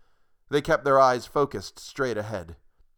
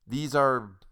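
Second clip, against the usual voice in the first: uneasy; 3 semitones higher, much slower than usual. Acted. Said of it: "he asked Mister Cummings uneasily".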